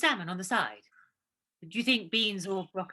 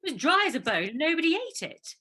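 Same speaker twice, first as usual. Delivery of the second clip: agitated; 6 semitones higher, 6 dB louder than usual. Real, not acted. Anxious cook arguing about broccoli.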